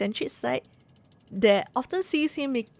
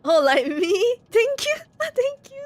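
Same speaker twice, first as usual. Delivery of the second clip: high character voice; 12 semitones higher, slower than usual. Acted. Reading a character's line in a voice.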